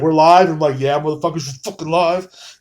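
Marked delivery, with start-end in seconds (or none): 0.0-0.5 loud, bright announcement that the stream is on; calling out. Retold or imitated. Guests calling out going live. 0.8-2.6 hyped greeting. Retold or imitated. His hyped reply going live.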